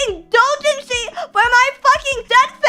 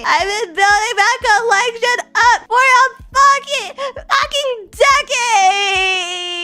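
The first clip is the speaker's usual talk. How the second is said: mock crying; slower than usual. Fake crying rant.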